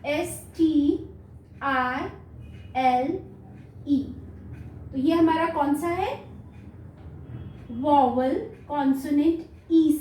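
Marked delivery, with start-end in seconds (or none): 0.1-4.0 slow letter spelling. Shown as a demonstration. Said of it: "यहाँ मैंने बेटा आपको बताया".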